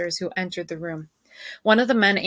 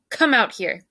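stern order; 4 semitones higher, 4 dB louder than usual. Acted. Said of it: "he ordered".

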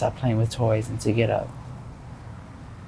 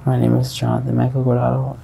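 repeated louder; 2 semitones lower, 3 dB louder than usual. Real, not acted. Witness repeating his name after the judge mishears. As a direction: repeat it so the judge can hear. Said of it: "I'm sorry?".

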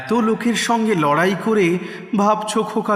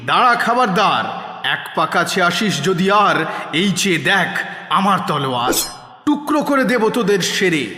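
firm, mildly fierce challenge; bold warning. Acted. Boy challenging bandits with his sword, bold warning. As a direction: warn them off like a brave little hero.

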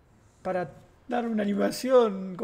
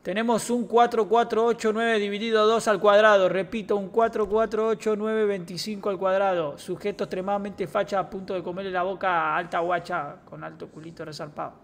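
police radio report; 5 dB louder than usual. Acted. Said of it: "no se te daría mal ser policía".

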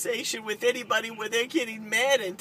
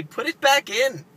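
stern mother; 3 semitones higher, 6 dB louder than usual. Retold or imitated. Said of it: "I would say".

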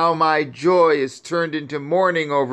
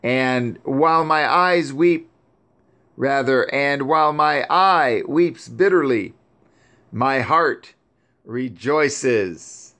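higher mournful voice, grief turning to praise; weeping lament; 3 semitones higher than usual. Acted. Grieving Sarah praising Yahuwah over her son, higher lament. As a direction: cry out to heaven in sorrow, held high. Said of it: "And she still continued to weep".

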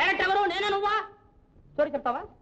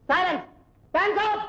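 shouted commands; 3 dB louder, slower than usual. Real, not acted. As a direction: command everyone at once. Director shouting commands on set.

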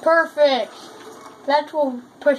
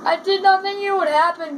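"did not" spelled out with NOT hit higher; stress on NOT; 6 semitones higher than usual. Real, not acted. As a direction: punch the word NOT in higher-pitched amazement. Emphatic restatement after a surprise.

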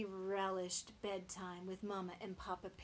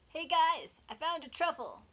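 excited piglet; 9 semitones higher, 12 dB louder than usual. Acted. Little Oink calls to pig pals.

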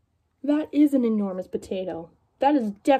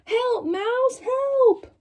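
high whispered call for help; whisper-call urgently, high; cat calling the mouse; 12 semitones higher, much slower than usual. Acted. Cat calling the mouse for help, high whispered call. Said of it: "the cat called the mouse".

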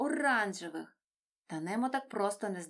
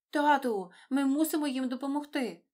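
determined; 5 semitones higher, 6 dB louder than usual. A narrator's reading. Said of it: "рішуче мовив Немо".

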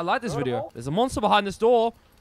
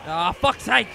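higher and louder, furious shouting at the NPC; angry yelling; 7 semitones higher, 5 dB louder than usual. Real, not acted. Streamer shouting at an unhelpful companion, furious and loud. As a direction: blow up at him, real frustration.

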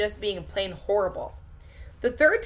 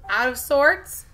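surprised question; 4 semitones higher, 5 dB louder, slower than usual. Acted. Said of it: "Missus V asked".

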